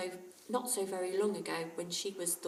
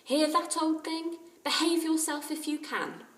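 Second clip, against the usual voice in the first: higher, louder mock-stern scolding; 9 semitones higher, 7 dB louder than usual. A narrator's reading. Jack scolding the parrot Kiki, mock stern. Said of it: "addressed himself sternly to Kiki".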